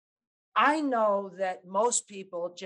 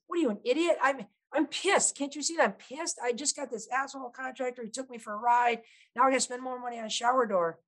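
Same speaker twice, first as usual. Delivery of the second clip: mock exasperated rant, a bit higher; irritated customer; 4 semitones higher than usual. Customer venting at salesman, mildly mock annoyed. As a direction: voice a fed-up customer's inner gripe. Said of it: "internally, what they're saying is".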